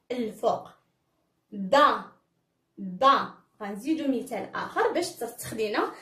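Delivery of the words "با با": با as "ba", opened on the "a"; fatha syllable. Shown as a demonstration. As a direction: model با as one clear syllable "ba". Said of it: "تنفتحو الفيم ديالنا".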